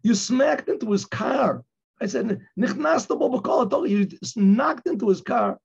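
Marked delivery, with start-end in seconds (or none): 0.0-1.6 scolding. Retold or imitated. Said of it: "I said to him in Hebrew". 2.6-3.9 higher, slow Hebrew rebuke "Nichnas to bo b'kol"; quoted Hebrew. Retold or imitated. Rabbi scolding the driver in Hebrew, slow and higher. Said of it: "I said to him in Hebrew".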